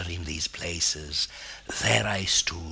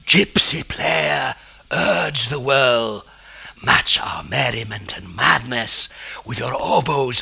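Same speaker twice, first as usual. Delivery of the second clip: commanding call; 5 semitones higher, 8 dB louder than usual. Acted. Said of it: "all would call me and command me".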